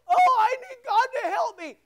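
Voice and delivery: high-pitched, hammed-up plea for help; mock pleading. Preacher mimicking someone who wants God's help, mock pleading.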